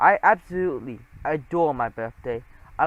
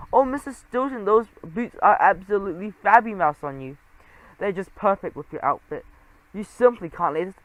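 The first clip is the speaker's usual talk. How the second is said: fawning sales mouse; 2 semitones higher, 3 dB louder than usual. Acted. Sales mouse voiced throughout.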